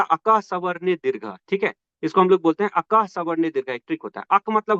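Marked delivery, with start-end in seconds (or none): 0.0-1.2 Sanskrit rule recitation. Shown as a demonstration. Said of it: "एक trick होता है इसका".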